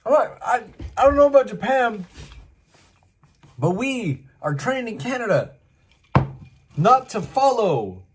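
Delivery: very high, loud mock refusal; high squeaky retort from the window; refusing. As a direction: protest in a squeaky voice. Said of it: "retorting to the stranger".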